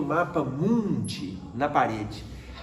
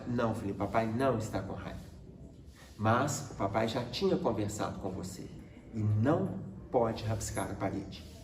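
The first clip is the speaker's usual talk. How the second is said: put-on low, soft reassurance to a child; calm father; 6 semitones lower, 8 dB quieter than usual. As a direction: explain gently but firmly, voice lowered. Father calmly reassures his crying child. (pai calmo, voz baixa e suave)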